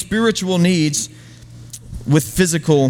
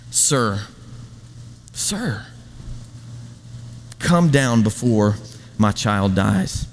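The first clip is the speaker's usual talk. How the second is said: desperate plea; 7 semitones lower, 4 dB quieter, slower than usual. Pretend. Desperate father begs Jesus.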